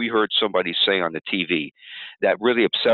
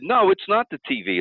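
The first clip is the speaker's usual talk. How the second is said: much higher, indignant no; a higher, sharper denial; indignant protest; 11 semitones higher than usual. Shown as a demonstration. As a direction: push back hard, pitch up. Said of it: "You're gonna say things like".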